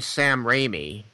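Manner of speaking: "Raimi" said RAY-mee, slowly; slow corrective "Raimi", first syllable like "ray"; correcting pronunciation. Shown as a demonstration. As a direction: offer "Raimi" with a long ay, as a question. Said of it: "Is that how you pronounce it?".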